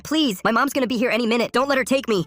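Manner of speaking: put-on high, urgent frightened girl; terrified plea. A narrator's reading. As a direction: beg in a high, scared voice. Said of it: "she genuinely looked terrified".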